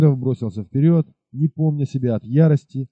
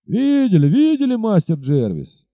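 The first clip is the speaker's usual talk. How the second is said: eager, higher chorus of locals; crowd agreeing; 7 semitones higher, 3 dB louder than usual. Acted. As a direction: chime in to back him up. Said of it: "подтвердили несколько человек".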